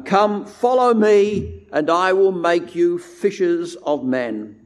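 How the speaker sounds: 1 Jesus calling. Retold or imitated. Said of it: "he said".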